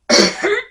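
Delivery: sharp hiccup sound; a sudden hiccup. Real, not acted. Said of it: "She must have hiccups".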